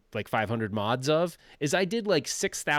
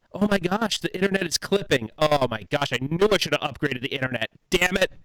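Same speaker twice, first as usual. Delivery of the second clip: mock dismay; 3 semitones higher than usual. Streamer pretending the internet is clipping, mock exasperation. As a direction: pretend to panic over a glitch. Feigning broken internet with chopper effect.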